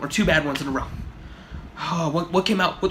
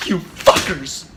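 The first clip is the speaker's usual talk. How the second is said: mock outrage; 5 dB louder, much slower than usual. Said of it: "obviously I'm being fucking sarcastic".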